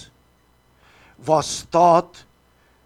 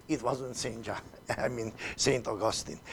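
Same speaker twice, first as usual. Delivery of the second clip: laughing correction; 7 semitones lower, 12 dB quieter, faster than usual. Real, not acted.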